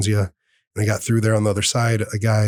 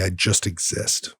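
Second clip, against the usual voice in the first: slow, quieter, heavy repeat of "I just exist."; 3 semitones lower, 4 dB quieter, slower than usual. Retold or imitated. Repeating the agent's words to the host, slow and heavy. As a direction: let "I just exist." sink in, slower and quieter. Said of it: "that's not a good thing to say".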